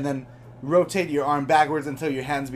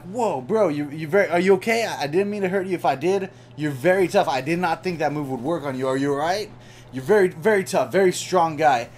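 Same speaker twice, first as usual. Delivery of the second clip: soothing. Retold or imitated. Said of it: "and I'm like".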